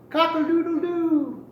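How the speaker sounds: high, loud crowing rooster call. Acted. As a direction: crow it out like a proud little rooster. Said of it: "cried as he had before".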